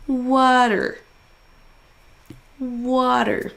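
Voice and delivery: WA in "Water" held long; stressed syllable drawn out. Shown as a demonstration. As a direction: lean on the first syllable of "Water". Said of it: "en faisant traîner un". (première syllabe de « Water » traînée)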